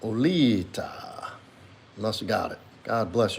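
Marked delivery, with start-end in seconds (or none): 0.0-1.3 slow whispered name. Real, not acted. Streamer whispers a viewer's name slowly to himself.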